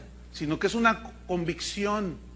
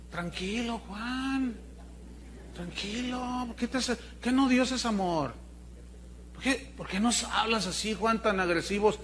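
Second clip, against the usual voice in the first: mock soothing; 2 semitones higher, 6 dB quieter than usual. Soothing Juan the Baptist.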